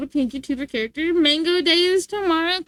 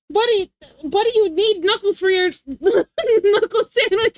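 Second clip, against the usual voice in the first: laughing; 5 semitones higher, 4 dB louder than usual. Real, not acted. Laughing while insisting.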